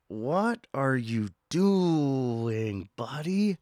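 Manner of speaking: slow, drawn-out disbelief at a weird customer; incredulous. Pretend. Talking to the mayo-loving customer, slow incredulous disbelief. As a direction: ask it like he's lost his mind.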